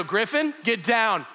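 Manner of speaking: a father stopping his son at once; daddy's firm command. Retold or imitated. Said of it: "but if I go".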